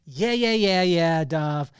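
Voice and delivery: impatient, lightly acted sceptic; dismissive sceptic. Business sceptic brushing off the guest's advice, dismissive. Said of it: "what about the person that says".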